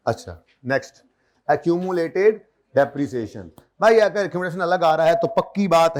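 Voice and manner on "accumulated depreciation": accumulated depreciation drawn out very slowly; slow dictation. Shown as a demonstration. Teacher dictates the heading to students, very slow. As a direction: spell it out word by word. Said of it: "dictating to class".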